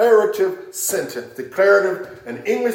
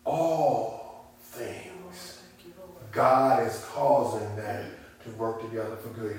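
hushed reminder; 4 semitones lower, 11 dB quieter, slower than usual. Shown as a demonstration. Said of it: "pause and calmly think about it".

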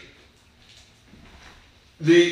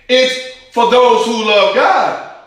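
"for those who love God" slow, higher and louder, with weight on "God"; emphatic, slow; 6 semitones higher, 4 dB louder, slower than usual. Shown as a demonstration. Preacher insists to his congregation that the promise has limits, slow and emphatic. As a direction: spell out "It's for those who love God" slowly, leaning hard. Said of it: "That's not for everybody".

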